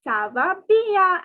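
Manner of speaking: Ça va bien said slowly, bien as bee-a; teacher's slow demo of Ça va bien; slow French reply. Shown as a demonstration. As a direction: model Ça va bien for students to copy. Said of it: "So I'll repeat".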